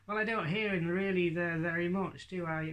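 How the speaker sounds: high northern lad puppet voice; Hadley. Acted. Puppet querying the ventriloquist, lightly voiced northern lad. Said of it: "he speaks with a northern accent".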